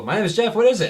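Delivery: high and loud goblin question; goblin calling. Acted. Goblins calling after Jeff at the door, high and loud. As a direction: chirp it out as a puzzled goblin. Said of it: "they go".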